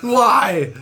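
high, slowed, whiny mock-sob at the car; imitated crying wail, not real tears; retold crying plea. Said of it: "just crying".

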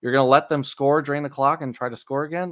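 exasperated mild yell, pitch and volume climbing; mock yelling at TV. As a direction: imitate a frustrated fan scolding the TV. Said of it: "I'm just yelling at the T V".

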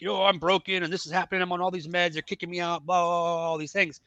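retold yelling. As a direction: act out venting at her without a full yell. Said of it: "I'm just yelling at her".

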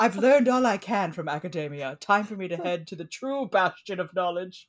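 lightly voiced pompous academic; mock learned scholar. Scholar leaving academia for a small town, lightly hammed-up grandeur. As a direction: declaim like a self-important scholar. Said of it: "I'm a learned scholar".

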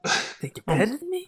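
soft mock Boston jab; echoing the Boston caller; lightly done Boston accent. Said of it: "horrible Boston accents".

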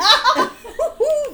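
high burst of laughter; loud laugh. Real, not acted. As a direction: break out laughing. Laughing at the spit.

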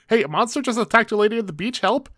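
high-pitched, hammed-up cry for help; mock alarmed bystander. A guy runs into the resort after a monster attack, mock alarm. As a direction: imitate a panicked guy raising the alarm. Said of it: "a guy just runs into the resort saying".

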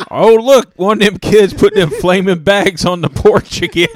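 put-on high, loud cranky old neighbor; old man voice. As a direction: play a grumpy old man yelling. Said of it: "I thought you were gonna say".

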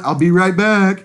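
mock doomed horror victim. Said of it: "You're totally the one".

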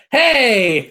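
loud offended yelp; indignant shout. Retold or imitated. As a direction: shout it from the next room. Wife protesting from other room.

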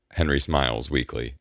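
ordinary delivery, nothing marked

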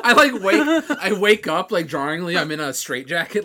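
loud, laughing through words; laughing while talking. Real, not acted. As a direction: giggle through it.

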